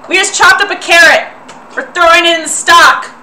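put-on old lady voice. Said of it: "I'm losing my old lady voice real hard".

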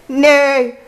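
loud, high horse imitation; full-force neigh. A narrator's reading. Goose pretends to be the horse, neighing hard. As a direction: neigh out with might. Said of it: "with all her might".

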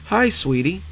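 wife putting on a high, sugary sweetness; sweet on top, hiding bad news; high, unnaturally sweet. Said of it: "Her voice was high, unnaturally sweet".

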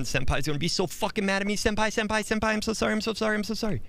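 high-pitched flustered junior worker; hammed-up high panic; panicked apology. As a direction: play a frantic, grovelling underling. Role-plays panicked late worker apologizing.

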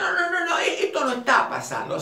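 high mock denial with a laugh. Patient mocked denying the trauma, laughing. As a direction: laugh it off, refusing the truth.

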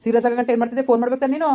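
angry scolding. Acted. Brother scolds sister on phone.

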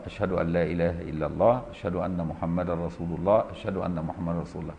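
under the breath. Shown as a demonstration. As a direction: say it just for the one beside you. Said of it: "في سره صوت يسمعه اللي جنبه". (بصوت خافت يسمعه اللي جنبه)

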